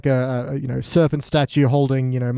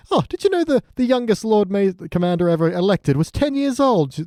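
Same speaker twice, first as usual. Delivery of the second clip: eager nerdy mock voice; 6 semitones higher than usual. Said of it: "Sam's like".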